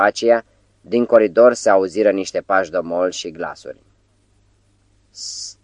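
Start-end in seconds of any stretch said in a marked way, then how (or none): 5.1-5.6 a sharp unvoiced shush; urgent whispered sst; whispered hush. A narrator's reading. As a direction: hush him in a breath, barely audible. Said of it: "șopti oaspetele".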